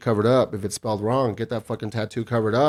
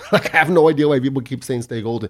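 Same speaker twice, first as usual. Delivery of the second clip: laughing; 3 semitones higher, 4 dB louder than usual. Real, not acted. Laughing while ranting.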